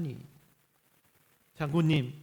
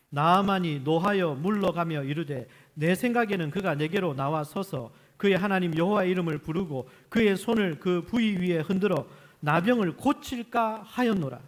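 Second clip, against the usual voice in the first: louder, steady Bible reading voice; scripture reading; 6 dB louder than usual. Acted. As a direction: read it aloud together with the congregation.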